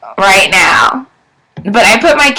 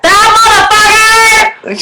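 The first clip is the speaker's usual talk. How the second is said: high, slow, outraged exclamation; exasperated outburst; 9 semitones higher, 4 dB louder, slower than usual. Real, not acted. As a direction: stretch it out in disbelief. Call went to voicemail.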